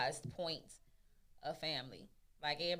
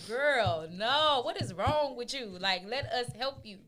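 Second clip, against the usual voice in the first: higher, louder sassy friend; imitating a friend; 5 semitones higher, 5 dB louder, slower than usual. Friends scolding her for retreating, mock exasperated. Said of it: "And my friends be like".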